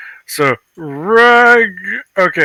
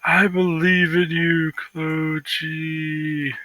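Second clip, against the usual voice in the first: hushed, tender cheer; quietly willing him on; soft encouragement; 7 dB quieter, much slower than usual. Pretend.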